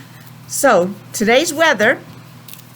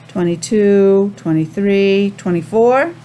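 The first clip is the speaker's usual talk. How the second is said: slow counting demo; 2 semitones lower than usual. Shown as a demonstration. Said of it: "Does that seem the right number?".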